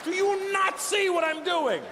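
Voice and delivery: high, slow mock furious yell; angry child. Five-year-old daughter scolding her dad, hammed-up high shout. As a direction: play the outraged little girl, shouting way up high.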